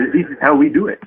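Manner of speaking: put-on jokey French accent, closer to German; mock French accent. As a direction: toss it off like a Frenchman shrugging, in a bad French accent. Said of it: "can we hear that accent one more time".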